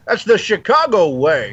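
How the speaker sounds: slow, lightly done Sean Connery line; Sean Connery impression. Quoting the Chicago film to friends, a light Connery impression. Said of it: "Sean Connery ... in Chicago".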